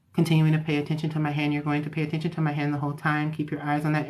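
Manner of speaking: fast, level hypnotist drone; monotone. Shown as a demonstration. Hypnotherapist keeping a client's eyes on the hand, fast monotone. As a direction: rattle it off on one even note. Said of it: "they just use a monotone voice".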